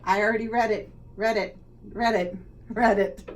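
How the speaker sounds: loud croaking "read it, read it"; bullfrog croak. Acted. Bullfrog telling the animals he already read it, croaking. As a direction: ribbit it like a bullfrog. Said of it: "what he said".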